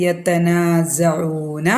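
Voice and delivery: slow drawn-out recitation; Quran recitation. Shown as a demonstration. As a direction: chant the verse slowly for the class. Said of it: "teacher models recitation". (ഖുർആൻ പാരായണ ശൈലിയിൽ)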